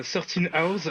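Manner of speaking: English title in a French speaker's accent. Real, not acted. Guest naming a film in self-mocked English, French-accented English. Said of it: "avec mon magnifique accent anglais".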